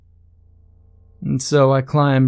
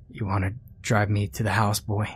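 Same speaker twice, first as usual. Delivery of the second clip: put-on softer, lightly gruff old woman; gruff, raspy; 2 semitones lower, 5 dB quieter than usual. A narrator's reading. Old woman asks a stranger for a ride, gruff and raspy. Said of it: "In a gruff, raspy voice".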